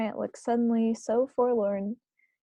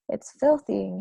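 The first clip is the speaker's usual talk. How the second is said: mouth full; 5 dB louder than usual. Acted. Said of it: "he sputtered, speaking with his mouth full".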